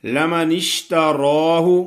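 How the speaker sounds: اشْتَرَاهُ with a thick ر and a long open ا; heavy ra. Shown as a demonstration. Teacher models the heavy ر in اشْتَرَاهُ. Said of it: "را پہ کھڑی زبر پڑھنی ہے، اس کو موٹا کرنا ہے".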